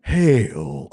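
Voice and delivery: lightly performed game-character hail; greeting without dragon voice. Acted. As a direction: call out a stately greeting in your own voice. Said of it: "Oh, wait, where's my dragon voice?".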